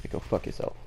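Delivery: a sly whispered insult; sneering whisper to the other players; whispered taunt. Real, not acted. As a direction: hiss it under the breath at the enemy.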